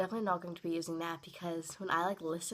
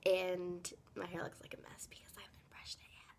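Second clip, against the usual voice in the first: whispering; 2 semitones lower, 5 dB quieter than usual. Real, not acted. Just woke up, filming quietly.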